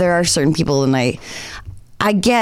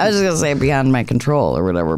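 flustered rush; 5 semitones lower, faster than usual. Real, not acted. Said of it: "I'm having a meltdown right now".

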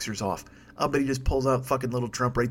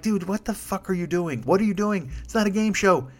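retold rant; 5 semitones higher than usual. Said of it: "I'm like".

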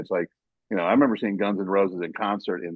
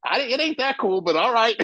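retold shrug, laughing; 12 semitones higher than usual. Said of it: "I'm like".

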